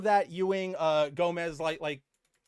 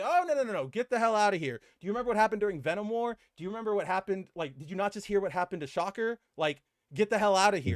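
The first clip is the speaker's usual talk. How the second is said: mock angry Boomerang; 4 semitones higher, much faster than usual. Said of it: "he's like".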